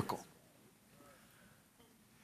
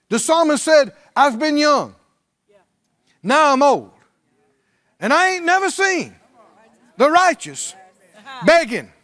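full-force preaching; 6 semitones higher than usual. Acted. Preacher tells the congregation believers never beg, in full-force preaching. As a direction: preach it out to the whole church.

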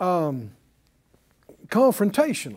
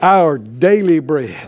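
slow, lingering, louder prayer line; slow prayer lead; 5 semitones lower, 6 dB louder, slower than usual. Shown as a demonstration. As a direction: lead the line slowly for the echo. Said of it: "Say it out loud".

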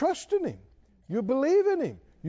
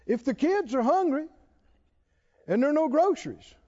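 normal talking voice

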